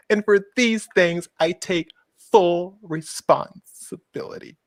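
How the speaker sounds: slow, drawn-out mock contrition; theatrical, measured confession; mock-solemn apology. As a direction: spell out the blame with hammed-up gravity. Theatrical reading of the woman's apology.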